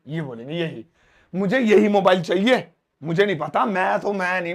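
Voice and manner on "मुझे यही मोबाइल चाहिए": put-on demanding kid. Acting a demanding child.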